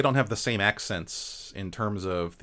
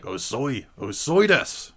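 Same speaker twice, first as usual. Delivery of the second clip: scolding teacher; 4 dB louder, slower than usual. Retold or imitated. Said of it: "my teacher would be like".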